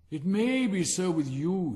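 loud, high, slow haughty rocket; conceited rocket, slow and grand; slow distinct rocket. A narrator's reading. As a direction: dictate it like memoirs. Rocket answers squib.

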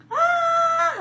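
high joyful shout; like a child running to greet dad; excited child cry. Pretend. Kids rushing out to dad.

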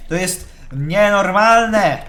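loud, drawn-out indignation; exasperated outrage. Real, not acted. Gamer complaining about a door shut on him, exasperated.

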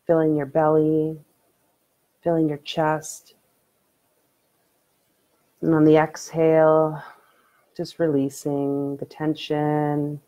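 unhurried meditation guide, long pauses between phrases; guided meditation. Acted. Streamer leads viewers in late-night breathing meditation, calm guiding voice.

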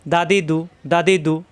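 দা, দি, দু as short syllables in a quick run; no delay. Shown as a demonstration. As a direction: run দা, দি, দু together, nothing held. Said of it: "কোনো দেরি করা যাবে না". (দেরি না করে ছোট করে দা, দি, দু)

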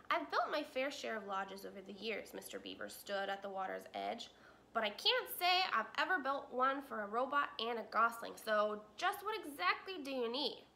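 put-on a busy old beaver asking. Mister Beaver voiced.

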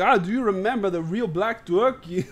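imitation Spanish accent, joking; mock Spanish accent. Gamer imagining foreign voices in games, mock Spanish accent. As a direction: put on a rough Spanish accent. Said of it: "some Spanish accents and be like".

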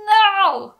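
high, loud "no!" broken by a laugh; sudden amused outburst. Real, not acted. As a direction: blurt it out, laughing at yourself. Jokingly stops herself.

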